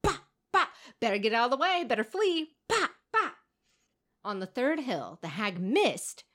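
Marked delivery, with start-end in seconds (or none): 0.0-3.3 high, loud mock-menacing boulder drop; booming hag. Hag dropping boulders on the hills, hammed-up threat. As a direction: bellow it like a giant hurling rocks.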